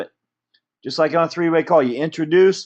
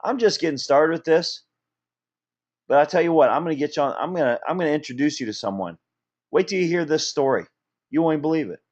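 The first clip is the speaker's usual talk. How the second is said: friendly invitation call; 2 semitones lower than usual. Retold or imitated. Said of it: "get good at saying".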